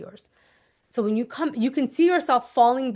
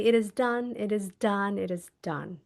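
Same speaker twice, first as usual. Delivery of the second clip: soft fading words; 2 semitones lower, 5 dB quieter than usual. Shown as a demonstration. Holding his hands, a fading soft murmur. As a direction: let it fade away like a sealed promise. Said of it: "softly, gently grab their hands".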